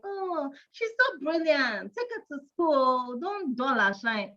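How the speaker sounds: a hint of nosy well-meaning outsiders; light sing-song mimic of unwanted parenting advice; mock advice from onlookers. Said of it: "people keep saying".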